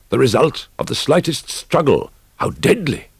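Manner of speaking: a high, loud cry of dread; alarmed outburst. A narrator's reading. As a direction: burst out in sudden terror. Terror at the blade.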